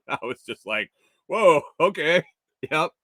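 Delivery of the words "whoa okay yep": awkward surprised brush-off; startled whoa. Retold or imitated. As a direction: back off politely from an odd stranger. Taken aback by stranger's rant.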